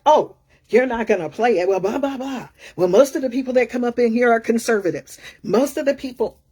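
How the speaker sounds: mildly heated, hurried imitation of a sore loser; mock fuming. Imitating the angry bar patron told no, mock fuming. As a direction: rattle off his indignant complaint, half in earnest. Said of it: "he got so pissed off, you know, like, fuming".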